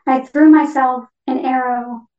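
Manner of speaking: measured poetry reading in short phrases; poem reading. Acted. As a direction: read it as a poem, pausing after each phrase. Reads own poem as the parakeet.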